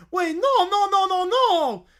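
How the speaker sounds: loud, high frantic cries; villain wailing as the plan fails; panicked no. Acted. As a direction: protest in rising panic.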